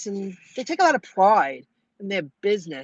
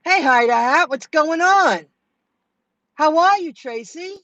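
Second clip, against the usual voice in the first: cheery greeting; 8 semitones higher, 5 dB louder than usual. Real, not acted. Greeting live chat viewers.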